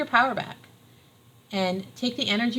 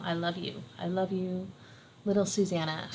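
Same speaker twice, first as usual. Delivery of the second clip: tender self-talk; 4 dB quieter than usual. Pretend. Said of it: "You can say this to yourself".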